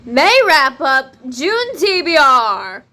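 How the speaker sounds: deliberate loud self-correction; emphatic correction. Real, not acted. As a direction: set the record straight slowly.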